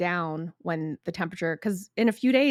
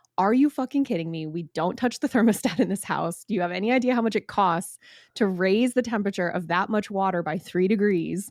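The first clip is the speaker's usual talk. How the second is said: ordinary talk, nothing marked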